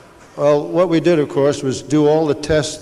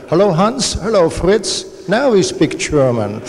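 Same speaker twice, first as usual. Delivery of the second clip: put-on high, slow comic German accent for two Germans meeting on the moon; 5 semitones higher, slower than usual. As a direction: ham up a thick German accent, drawn out and high. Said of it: "try my German accent".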